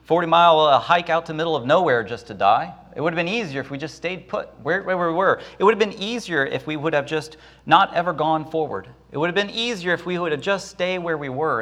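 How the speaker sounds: high, fast complaining whine; whining Israelites. Acted. Grumbling Israelites wish they had stayed in Egypt, high whine. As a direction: moan as if the trek were ruined. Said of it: "They wanted to go back to Egypt".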